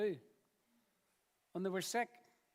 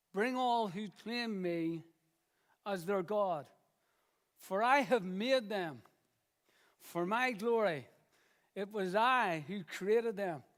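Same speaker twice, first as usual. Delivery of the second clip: slow, measured scripture reading; 3 dB louder, slower than usual. Acted. Preacher reading Isaiah to the congregation, slow and measured. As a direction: read it slowly, weighing each phrase.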